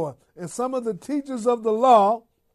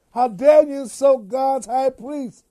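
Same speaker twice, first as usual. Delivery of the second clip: louder, emphatic quoted scolding; indignant rebuke; 3 semitones higher, 6 dB louder than usual. Acted. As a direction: act out an accuser's loud reproach. Quoting the rebuke made to Paul.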